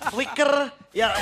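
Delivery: laughs out the word; laughing. Real, not acted. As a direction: say it through a laugh. Joking about Moreno.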